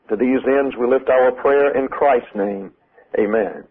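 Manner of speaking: earnest, measured prayer voice. Acted. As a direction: pray aloud to the Father, steadily. Leads a prayer.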